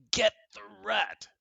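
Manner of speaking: put-on child shouting a command; shouted order. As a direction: yell at the cat to get the rat. Nat orders his cat.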